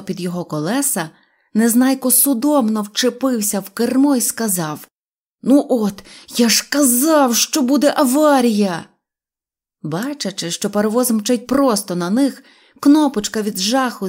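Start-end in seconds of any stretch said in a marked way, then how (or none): 5.4-8.8 loud, raised-pitch alarm. A narrator's reading. Neznaiko tells them he warned of a crash, loudly alarmed. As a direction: exclaim as the crash looms. Driver foresees crash with the train.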